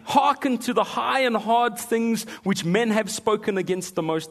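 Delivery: loud, high, grand pulpit oration; Spurgeon's preaching. Retold or imitated. Preacher reads Spurgeon aloud, grand oratory. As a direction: thunder it like the Prince of Preachers. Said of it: "Prince of Preachers".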